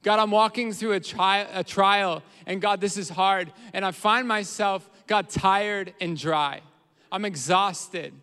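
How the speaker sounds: acted weary plea, loud and slow; emphatic, drawn-out prayer of exhaustion; tired and dry. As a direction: lean hard on the weariness. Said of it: "what they're saying is".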